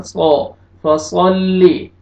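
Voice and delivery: फसल्ली with a thick, dark S; heavy saad. Shown as a demonstration. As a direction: make the S in सौ and फसल्ली full and heavy. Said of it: "मोटा करके पढ़ना है". (सौद मोटा करके)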